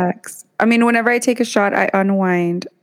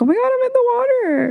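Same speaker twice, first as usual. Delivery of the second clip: high, rushed startled cry; mock panic; faster than usual. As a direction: blurt it out as if waking startled. Acts out panicked waking in tub.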